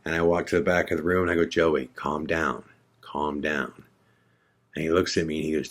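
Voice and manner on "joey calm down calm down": slow, lowered calm-down, softer at the end. Retold or imitated. Narrator soothing pacing Joey, slow and quiet. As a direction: talk someone down slowly and low, retold.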